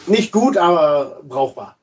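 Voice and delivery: blocked nose from a cold; stuffy nose. Real, not acted. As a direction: talk through a stuffed-up nose. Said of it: "du folgst dem Trend und bist verrotzt".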